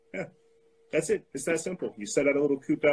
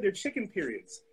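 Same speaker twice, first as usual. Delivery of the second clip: mocking vegan; 4 semitones higher, 5 dB quieter than usual. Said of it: "Isn't that what the vegan said?".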